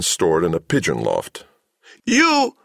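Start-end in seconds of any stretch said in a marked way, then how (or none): 2.0-2.6 very high robot squeal; crying out. A narrator's reading. Samhet spots Cabal on the stairs, squealed robot cry. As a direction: cry out in a shrieky machine voice. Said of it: "cried Samhet".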